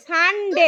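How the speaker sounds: সানডে split as সান-ডে, rising; syllable by syllable. Shown as a demonstration. Teacher asking how many syllables, syllable by syllable. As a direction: break সানডে into two clear beats. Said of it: "সানডেতে কটা syllable আছে?".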